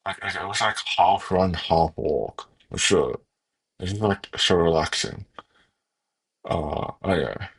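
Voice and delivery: talking around a pen in the mouth. Real, not acted. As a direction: speak with a pen held in your mouth. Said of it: "that's enough talking with a pen in my mouth".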